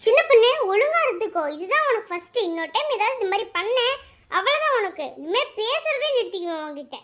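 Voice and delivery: cross warning. Acted. Warning the prankster friend.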